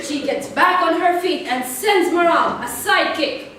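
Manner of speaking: loud, high, excited boxing announcer; ringside commentary. Acted. Sister narrating pillow fight as boxing match, loud and hyped.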